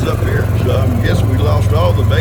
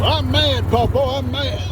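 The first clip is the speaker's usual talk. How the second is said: lightly voiced grumbling goat, a bit higher; voicing the goat; 9 semitones higher than usual. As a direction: give Ivan a mild whiny complaint. Voicing the complaining goat Ivan.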